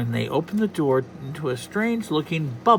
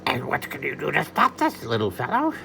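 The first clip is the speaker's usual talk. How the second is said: horrible Donald Duck; 2 semitones higher than usual. Acted. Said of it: "my Donald is horrible".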